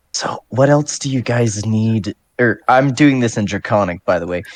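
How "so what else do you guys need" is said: whispered voice. Playing a character who whispers to a kobold: whispering in character. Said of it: "I'm gonna whisper to".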